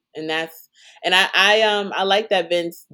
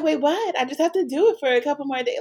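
higher-pitched, quick puzzled protest; acted-out confusion; 6 semitones higher, faster than usual. Voicing Shoshana's reply to being pulled aside, mock bafflement. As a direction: imitate being caught off guard.

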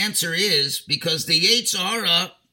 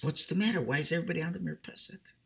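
mock sincere; 8 dB quieter, much faster than usual. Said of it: "he asks very sincerely".

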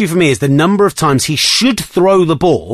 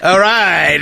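laughing; 6 semitones higher than usual. Real, not acted. Recovering, laughing after choking.

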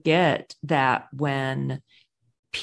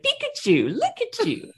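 singsong, leaping up high on "look at you"; imitated inflection. Shown as a demonstration. Showing the inflection used on animals, high singsong imitation. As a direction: echo a cartoon name, then coo high. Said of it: "voice with that inflection".

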